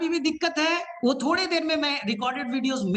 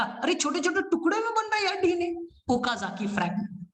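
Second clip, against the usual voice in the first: mock scientist; 4 semitones higher than usual. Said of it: "उन्होंने बोला".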